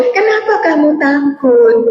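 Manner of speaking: P=A; slow question. Shown as a demonstration. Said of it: "Pertanyaan dia adalah".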